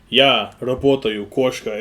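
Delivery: "Я работаю", then "кошка" slowly, each word set apart; segmented, word by word. Shown as a demonstration. Showing how learners chop up "Я работаю, кошка", slow and segmented. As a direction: say "Я работаю, кошка" in separate pieces. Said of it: "people say is, like, segmented".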